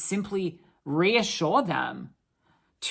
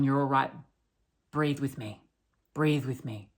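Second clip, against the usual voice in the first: softer, calm calming-down voice; soothing; 3 semitones lower, 4 dB quieter than usual. Retold or imitated. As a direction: talk a panicking person through breathing. Soothing panicking person at work.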